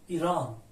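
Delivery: ایران opening on a clear ee. Shown as a demonstration. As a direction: say ایران with the first vowel as ee. («ایران» با صدای ای)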